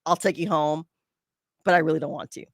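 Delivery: mildly grudging, unwilling offer; a hint of begrudging reluctance; reluctant. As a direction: say it like you'd rather not. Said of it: "But in a very, like".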